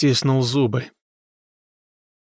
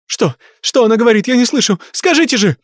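high, louder frantic demands; shrieking; 10 semitones higher, 4 dB louder, faster than usual. A narrator's reading. Mother shrieking at the medium for news. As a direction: shriek in desperation. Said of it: "взвизгнула Люси".

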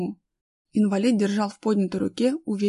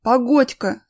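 loud, halting interjection; acted "hold on" call; calling to wait; 3 semitones higher, 7 dB louder, slower than usual. A narrator's reading. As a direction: stop them with a call. Halting the group.

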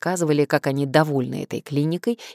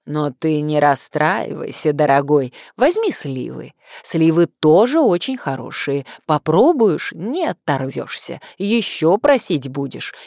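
fruit seller voice; 4 dB louder than usual. Acted. Fruit seller praises plums.

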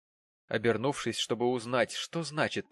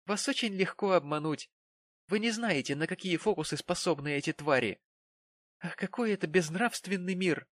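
put-on indignant young lady; 7 semitones higher than usual. A narrator's reading. Charity rants indignantly.

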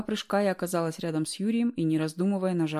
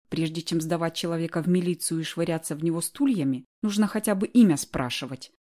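angry hiss; 3 dB louder than usual. Acted. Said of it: "зло процедила я".

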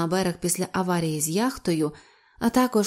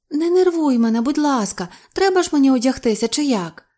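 high, loud, testy woman's reply; irritated retort; 6 semitones higher, 4 dB louder than usual. A narrator's reading. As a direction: snap back, annoyed at being hurried. Annoyed reply to being hurried.

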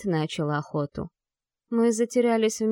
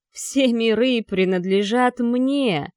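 mad shout; 3 semitones higher, 4 dB louder, slower than usual. Acted. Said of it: "сотрясти стены своим безумным криком".

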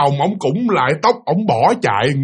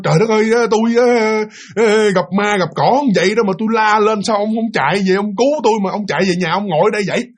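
higher, mildly exasperated scolding; grumbling reproach; 4 semitones higher than usual. Acted. Wife asking husband why he ran home, grumbling reproach. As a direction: take him to task, grumbling. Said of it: "không có chửi mà cũng cầu nhau".

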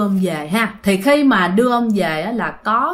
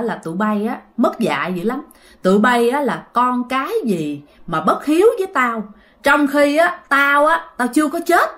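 retold scolding. Grandpa scolding his children for the coffin, mock angry. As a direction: scold the ungrateful kids as the revived grandpa. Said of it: "Sau một hồi cái ông chửi".

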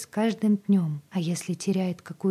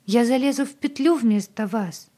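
higher, louder, desperate outburst; desperate cry; 5 semitones higher, 5 dB louder than usual. A narrator's reading. Agata cries to Zoe she will hang instead, higher and louder. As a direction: throw yourself at the offer. Agata offers her life.

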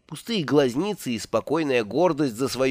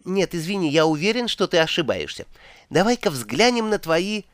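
высокий спорящий голос; 5 semitones higher than usual. Acted. Спор за картами, другой игрок.

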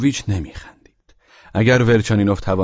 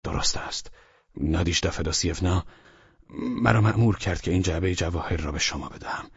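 sour; 3 semitones lower, 6 dB quieter than usual. A narrator's reading. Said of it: "با ترش رویی بسیار گفت".

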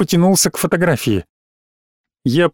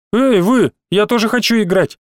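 put-on whiny child; 6 semitones higher than usual. Little boy bursts in.

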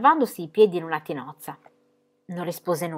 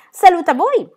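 much higher, louder hail; loud greeting; 12 semitones higher, 11 dB louder than usual. A narrator's reading. Pippi bursts into the classroom greeting everyone, loud. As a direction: burst in with a big hello. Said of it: "esclamò Pippi".

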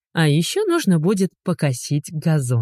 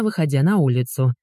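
plain reading voice

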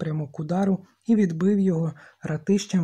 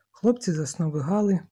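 ordinary delivery, nothing marked

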